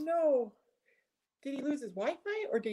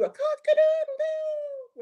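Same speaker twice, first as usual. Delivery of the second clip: rooster crow imitation; 6 dB louder, slower than usual. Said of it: "alarm clocks that talk and that do".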